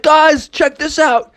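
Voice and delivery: high, drawn-out excited call; showing off. Acted. Shark to friends while surfing, excited call.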